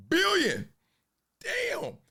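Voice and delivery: a high, stunned shout of the word; amazed exclaim. Real, not acted. Hearing the Super Bowl betting total, an amazed high exclaim. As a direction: blurt it out in disbelief.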